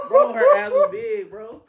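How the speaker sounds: high, loud laugh-filled shout. Real, not acted. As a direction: blurt it out mid-laugh. Laughing while describing her.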